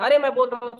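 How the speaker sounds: imitating an annoyed family member; mock exasperation. Acted family quarrel over not listening.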